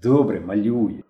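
understated peacemaking tone; conciliatory. A narrator's reading. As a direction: let it go with a teasing reproach. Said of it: "примирливо додав".

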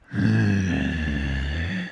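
long, low raspy sigh; mock-brooding drawn-out groan. Acting out Christian Bale not celebrating, long low brooding groan.

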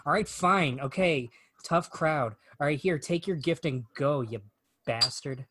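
mildly frustrated comic giving up on the crowd; Conan O'Brien. Retold or imitated. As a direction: imitate a fed-up stand-up, understated. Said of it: "Conan just gets frustrated".

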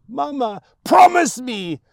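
put-on high, loud frightened boy; child's scream. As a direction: cry it out in terror. Boy cries out to mother.

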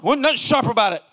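quick, defensive comeback; defensive retort. Retold or imitated. Spouse denying to partner that he was sharp, quick defensive retort. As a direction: brush off the complaint fast. Acted quarrel between spouses.

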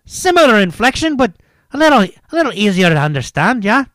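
loud, high, lilting mock Irish; Irish accent. Shown as a demonstration. Podcaster comparing accents, hammed-up Irish accent. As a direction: attempt an Irish accent, ending like questions. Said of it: "The Irish is a little higher".

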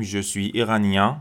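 "iranien" ending in a nasal vowel, n silent; "iranien" drawn out on its nasal ending. Shown as a demonstration. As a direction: say the end of "iranien" through the nose. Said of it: "مدل نزلاشون".

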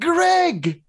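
emphatic high call. Retold or imitated. Stranger insisting on his name to Knut, high and loud. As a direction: make him finally get it. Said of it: "And he's like".

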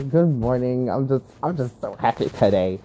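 mock-cheery, laughing sarcasm; annoyed good morning dripping with fake happiness; sarcastic greeting. Locked-out worker greeting the late manager, sarcastic. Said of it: "I was just annoyed".

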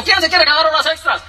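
imitated foreman's announcement; calling out. At work someone asks for overtime, calling out.

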